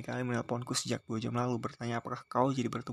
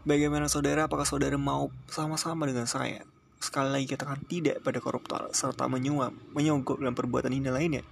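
rousing orator; 3 semitones higher than usual. Acted. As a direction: fire up the crowd from the podium. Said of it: "sedang bakar masanya".

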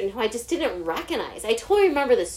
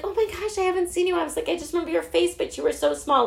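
higher-pitched social pleasantries; imitated polite gushing; 8 semitones higher than usual. Teacher greets a forgotten student, high polite gushing. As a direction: cover with a high, polite gush.

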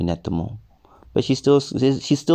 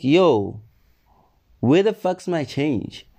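raised voice, demanding change; loud demand; 5 semitones higher, slower than usual. Retold or imitated. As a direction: snap it out, high and sharp. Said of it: "But, like, calmly".

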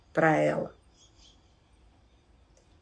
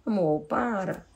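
gentle plea; 5 dB quieter than usual. Shown as a demonstration. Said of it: "a pessoa tá muito inconveniente".

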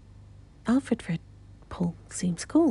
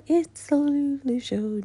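upbeat announcer voice; show announcer; 7 semitones higher, 5 dB louder than usual. Pretend. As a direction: announce the show title brightly.

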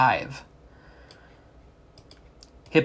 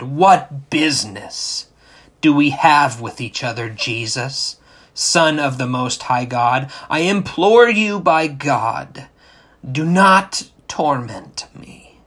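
loud shout; 5 dB louder than usual. Acted. Demon in possessed man implores Jesus, loud shout. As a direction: shout it out as a desperate demand. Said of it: "shouted with a loud voice".

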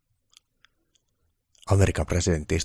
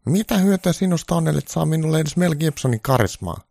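much higher, loud angry whine; angry Trump; 11 semitones higher, 6 dB louder than usual. Acted. Trump berating Santa about Mel Gibson's charisma, high and angry. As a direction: demand it furiously. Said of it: "Trump sanoi vihaisesti".

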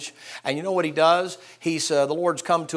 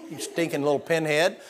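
a higher, louder mock scold; 4 semitones higher, 5 dB louder than usual. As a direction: play at scolding the people who leave early. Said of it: "you wanna just go".

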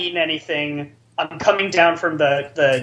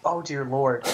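much softer, low weary groan; hushed, defeated oh-dear-Lord; exasperated; 5 semitones lower, 10 dB quieter than usual. Retold or imitated. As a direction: mutter it in resigned despair. Exasperated reaction.

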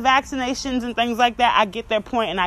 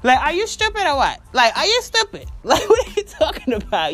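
put-on higher, whiny kid's taunt; like a five-year-old; 4 semitones higher than usual. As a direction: sound like a child mocking. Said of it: "You got me talking like my five-year-old".

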